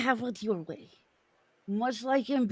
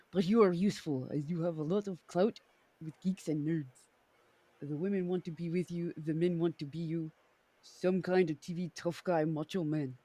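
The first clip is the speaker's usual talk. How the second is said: put-on Russian accent; 2 semitones lower than usual. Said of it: "Russian works, by the way".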